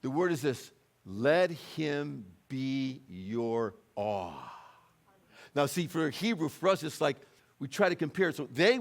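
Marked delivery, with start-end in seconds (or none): 1.0-4.5 very slow, drawn-out words; slow, reverent pronouncement; solemn declaration. Acted. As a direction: stretch out each word with weight. Solemnly reading out the key word.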